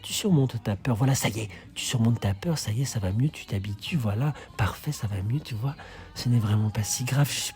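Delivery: de plus en plus bas, apaisant comme à un enfant; reassuring. Acted. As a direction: calmez l'enfant après le cri, doucement. Rassure Jeannot après avoir crié. (rassurant et plus doux, comme un père qui console Jeannot)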